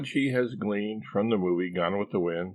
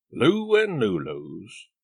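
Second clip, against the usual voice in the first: reading a sign; 3 semitones higher, 4 dB louder, much slower than usual. Acted. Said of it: "Warble reads".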